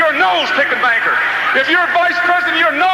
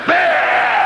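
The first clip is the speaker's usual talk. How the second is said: dismissive bah; 3 semitones higher than usual. Retold or imitated. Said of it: "I wanted to say".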